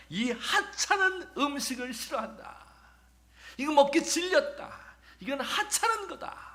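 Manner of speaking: scornful high-pitched grumble about the food; whiny grumbling Israelites. Acted. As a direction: whine it like a fed-up ungrateful crowd. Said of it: "이렇게 하며".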